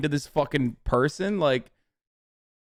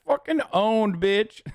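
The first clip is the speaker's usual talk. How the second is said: mock gloating; 6 semitones higher, slower than usual. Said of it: "you're like".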